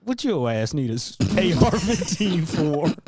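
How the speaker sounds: lightly voiced challenging saleswoman; a hint of a put-on Black woman's voice; sassy gun seller. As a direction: play a skeptical customer service woman grilling a buyer. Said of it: "only black women who have been fired".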